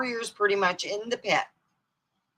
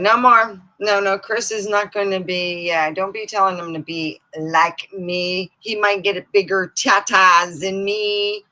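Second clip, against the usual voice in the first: mock protest; 2 semitones higher, 5 dB louder than usual. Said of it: "And I told my dad".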